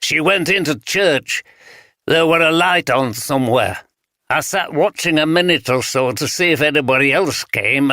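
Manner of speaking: lightly voiced old vagrant in broad Yorkshire; broad Yorkshire accent. Vagrant tells detectives what he saw, light broad Yorkshire. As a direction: tell it plainly in a touch of broad Yorkshire. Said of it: "spoke in the broad Yorkshire accent".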